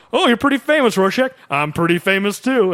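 high, loud mock villain voice; quoting a villain. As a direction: ham up the villain's boast. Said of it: "He goes like".

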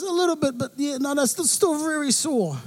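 a hint of a sore little boy complaining; whiny son. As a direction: son complaining to dad about his sore ankle, a touch whiny.

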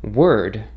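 "word" with a full American R; "word" with the R clearly pronounced; Americanized pronunciation. Shown as a demonstration. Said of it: "as the Americanized pronunciation would be".

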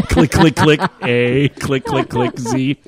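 low, deliberate keypad imitation; mock keypad clicking. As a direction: act out laborious button-by-button texting. Miming old keypad texting.

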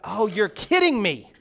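hammed-up fake astonishment; God teasing Moses with mock surprise; sarcastic God. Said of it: "And God's like".

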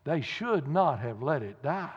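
mild mock lament; moaning. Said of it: "he moaned".

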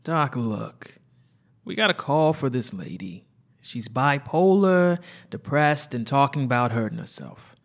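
urgent explaining. Acted. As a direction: push the doctor to help. Partner explains, pressed and urgent.

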